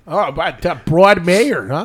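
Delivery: put-on slow, drifting Wisconsin accent; botched Wisconsin accent. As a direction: attempt an accent and slide into Wisconsin. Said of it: "I don't know why I'm in Wisconsin".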